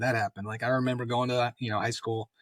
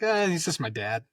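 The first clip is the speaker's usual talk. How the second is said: mock offhand, higher-pitched brush-off; dismissive shrug; 6 semitones higher than usual. Kids shrugging off classmates' awe about dad, dismissive.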